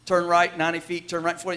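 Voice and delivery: a hint of a car GPS giving directions. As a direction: read it like a calm navigation voice. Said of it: "when it says".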